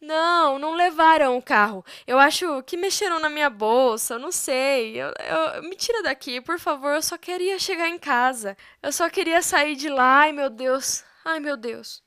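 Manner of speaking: half-sobbing, begging to be taken home; crying distress. Acted. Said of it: "chorando, continuará".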